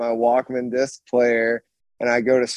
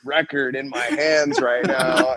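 giddy, higher-pitched mock panic; retold freak-out; 3 semitones higher than usual. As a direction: act out freaking out, laughter creeping in. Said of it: "freaking out".

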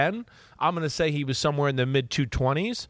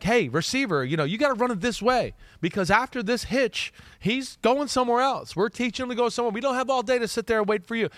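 raised-pitch imitation of a coach scolding a receiver; coach instructing receiver; 8 semitones higher than usual. Coach telling the receiver to hurry, voiced higher. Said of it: "to be like".

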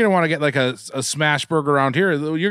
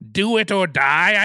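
Crypt Keeper; 4 semitones higher, slower than usual. Acted. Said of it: "like, a pun for that".

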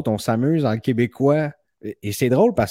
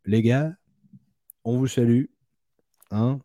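a light put-on France French accent; lightly voiced France French, greeting the guys. Host greeting French collectors in a light France French accent. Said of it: "c'était mon meilleur, euh, accent français".

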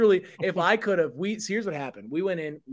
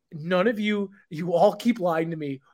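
imitating distressed lady; 3 semitones higher than usual. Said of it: "and I quote".

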